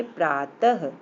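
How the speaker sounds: प्रातः in two parts, praa-tah, with the h audible; visarg as h. Shown as a demonstration. Teacher reads out the visarg word, final h pronounced. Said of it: "तो पढ़ेंगे".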